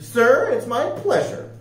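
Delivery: high, pleased storybook reply; delighted young recruit voice; beaming. A narrator's reading. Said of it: "She beamed".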